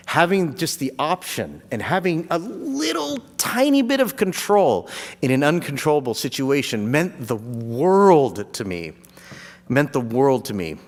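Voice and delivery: slowing down as emotion builds; getting emotional. Real, not acted. Thanking Stuart for the cooler, real emotion. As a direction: let it catch in your throat. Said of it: "I'm getting emotional".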